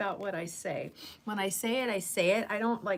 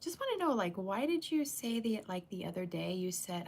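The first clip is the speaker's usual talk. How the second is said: soft, quick, sweet-talking ask; tiptoeing around it to stay nice; sugarcoated ask; 2 semitones higher, 5 dB quieter than usual. Shown as a demonstration. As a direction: ease into the question gently and fast. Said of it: "I'll just come out like".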